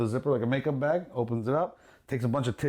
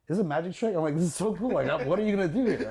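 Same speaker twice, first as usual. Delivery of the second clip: higher-pitched playful mock amazement; mock wonder; 5 semitones higher than usual. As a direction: play along, pretending to be impressed. Feigns wonder at her trick.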